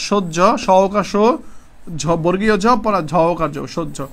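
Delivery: "সহ্য" spelled sound by sound, then whole; spelled-out pronunciation demo. Shown as a demonstration. Teacher reminding students how "সহ্য" is pronounced, spelling it out. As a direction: break "সহ্য" into its sounds with pauses, as shod-jho. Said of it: "সহ্য উচ্চারণটা কি একবার দেখাইছি".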